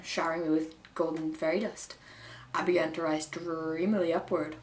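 put-on storytelling in an amateur Irish accent; attempted Irish accent. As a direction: tell the tale with your best Irish accent. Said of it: "I know mine's not very good".

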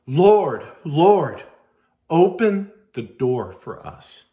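loud pleading cry of Lord, Lord. Acted. Foolish virgins cry out to the bridegroom, loud pleading. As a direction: call out to the locked door, begging. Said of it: "And they cry out".

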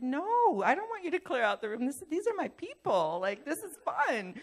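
high-pitched, animated objection; mock indignant protest. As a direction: protest playfully, pitch jumping up. Retold protest defending her party.

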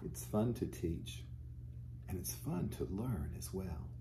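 gentle storybook reading voice; teacher reading a storybook aloud to children. Acted. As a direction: read the picture book to the little ones. Reads a picture book to children.

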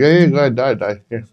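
high teasing go-ahead; mock encouragement. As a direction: egg him on sarcastically. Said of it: "They're like".

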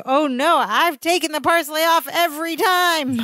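high-pitched dismayed wail; mock panic. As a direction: realize the awful mistake in an exaggerated high voice. Acts out Larry's horrified realization.

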